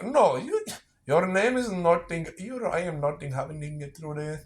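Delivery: mock Indian accent. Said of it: "do the accent".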